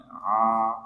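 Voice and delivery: 'a' from the middle of the throat; ain sound. Shown as a demonstration. Teacher showing students the throat letter, ain sound. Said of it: "pengucapannya tidak berubah menjadi ain".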